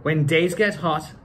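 lively storybook reading; reading to children. A narrator's reading. Actor reading Doctor Seuss to children in a lively voice. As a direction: read it out like story time for kids. Reads book aloud.

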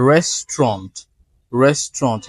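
restaurant in two syllables, RES-tront; correct pronunciation. Shown as a demonstration. Teacher models word five, correct pronunciation. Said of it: "not restaurant".

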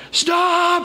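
high-pitched, drawn-out cry of a farmer; strained high holler, not full volume; mock yelling. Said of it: "he's just yelling at kids".

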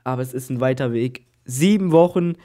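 ordinary talk, nothing marked

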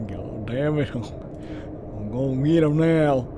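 put-on redneck drawl; drawn-out southern redneck voice; redneck accent. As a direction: slip back into a mock redneck accent. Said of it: "I have too much fun with it".

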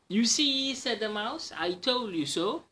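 a smug little victory squeak; gloating mouse. Acted. Mouse gloats to the Gruffalo, high smug squeak.

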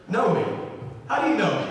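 puzzled question with a slight lift; confused. Retold or imitated. Baffled Nathanael questions Jesus, confused. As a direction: ask it as if baffled. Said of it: "Nathanael's really confused here".

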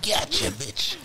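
sudden loud, high yell; triumphant shout. Real, not acted. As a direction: burst out as you strike. Sudden attack after sneaking.

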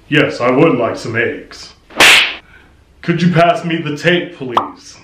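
newscaster voice. Retold or imitated. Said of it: "professional newscaster type voice".

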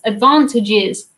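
drawn-out American-sounding 'advantages'; North American accent. Shown as a demonstration. Streamer puzzling over the word, slow North American accent. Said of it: "saying that not in my own accent".

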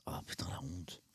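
voiceless, very soft embarrassed whisper; real embarrassment, breathed out without voice; mortified whisper. Real, not acted. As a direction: whisper it to yourself, ashamed. Mortified at having mispronounced a name.

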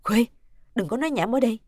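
put-on startled, gentle reprimand to a child; mild scolding. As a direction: lightly tell the child off. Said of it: "Khánh giật mình khẽ mắng nhẹ con".

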